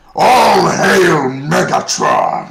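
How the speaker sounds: very loud, creaky, rough bellow with swooping pitch. Recalling a line said every day: Megatron voice. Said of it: "can we hear the Megatron voice?".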